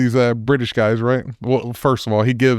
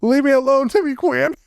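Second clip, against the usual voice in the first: much higher yelled shout; crazed yell; 11 semitones higher than usual. Retold or imitated. The kid opens fire, yelling a random name in a high mock scream. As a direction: scream it like a kid gone mad. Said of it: "He just yells a random name out".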